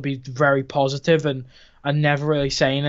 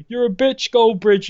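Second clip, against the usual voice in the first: put-on kid's taunt; 4 semitones higher, slower than usual. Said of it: "child run past and go".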